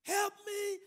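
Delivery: high-pitched mock cry for help; mock scream. Frightened woman at the escalator calling for help, mock scream. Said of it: "She starts to scream".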